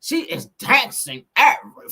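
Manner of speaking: hammed-up tribute to a British rocker, through laughter. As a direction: parody the British vowels, big and loud. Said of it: "I said rocker tribute".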